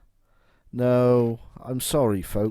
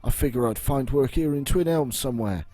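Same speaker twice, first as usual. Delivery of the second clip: higher, fast, jittery; nervous stammer; 4 semitones higher, faster than usual. Acted. Shaken guard dodging the hunter's question, jittery and fast. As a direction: rattle it off like a scared man covering up.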